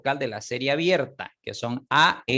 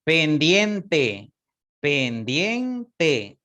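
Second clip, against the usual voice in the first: Pendiente said louder, each syllable clear; model word; 4 dB louder, much slower than usual. Shown as a demonstration. Teacher showing a diptong example, firm. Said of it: "Ahí está".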